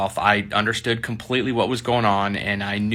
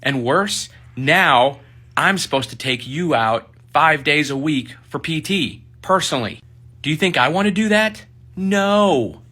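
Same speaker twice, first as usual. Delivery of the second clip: higher, venting in frustration; exasperated sergeant; 5 semitones higher than usual. Retold or imitated. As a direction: complain like a fed-up boss behind closed doors. Sergeant drops the act, exasperated.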